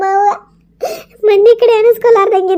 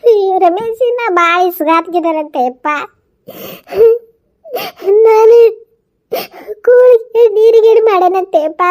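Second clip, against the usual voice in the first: tearful complaint. Acted. Mother wailing complaints to son.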